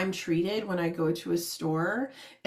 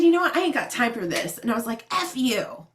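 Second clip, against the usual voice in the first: mock angry outburst, louder; angry retort; 2 semitones higher, 3 dB louder than usual. Fed-up caller snapping back at a rude agent, mock angry. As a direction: tell him off in a fit of temper. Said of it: "I said".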